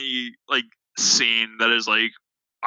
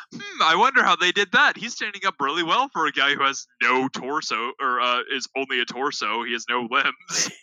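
mock puzzled King Arthur. Mocking King Arthur's puzzled musing.

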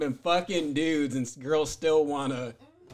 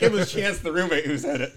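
laughing; 3 dB louder than usual. Pretend. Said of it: "I'm gonna be like".

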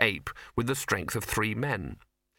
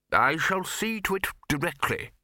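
smoothly obliging, raised pitch; smooth lying; 6 semitones higher than usual. A narrator's reading. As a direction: promise it smoothly without meaning it. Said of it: "lied the bursar smoothly".

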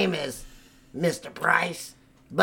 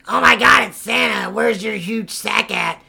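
excited fan; 4 semitones higher, 4 dB louder than usual. Retold or imitated. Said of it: "And I was like".

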